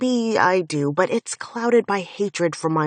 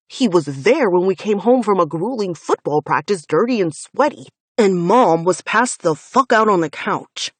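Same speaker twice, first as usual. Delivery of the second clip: loud, relentless, bitter account; angry recollection; 5 dB louder than usual. Acted. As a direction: hammer each memory home. Finn recounts trauma furiously.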